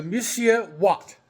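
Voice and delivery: a light, slowed mock French accent; hamming up a French accent on the dish name. Cook naming the dish in a mock French accent. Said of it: "I'm saying it with a French accent".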